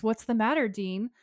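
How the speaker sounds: lightly voiced taunting little girl; mock-sweet girlish teasing; little girl Lilith. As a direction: pitch it up for a playful child demon. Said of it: "And Lilith says".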